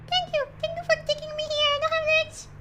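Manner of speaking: high squeaky little box voice. Acted. Voicing the box.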